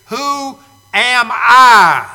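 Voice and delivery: a hint of Moses shrinking from the call; mild mock reluctance, drawn out; hesitant Moses. Moses dodging God's call.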